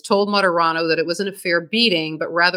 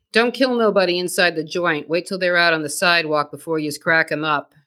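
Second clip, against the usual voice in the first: put-on thick Boston accent, mobster quote. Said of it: "put on my Boston accent for this one".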